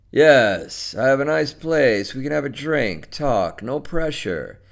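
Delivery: lightly voiced man inviting her over; coaxing man. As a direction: coax casually, as the man on the phone.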